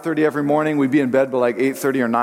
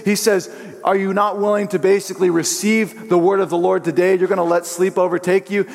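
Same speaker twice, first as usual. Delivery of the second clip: firm, higher scolding voice; stern mentor; 4 semitones higher than usual. Retold or imitated. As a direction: scold them like a stern pastor. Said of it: "reprimanded us".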